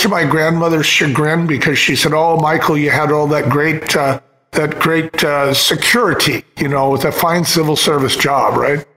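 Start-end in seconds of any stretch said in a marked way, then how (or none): 2.1-8.6 put-on a light Irish accent for grandma; lightly voiced Irish grandmother accent. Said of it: "In her Irish accent".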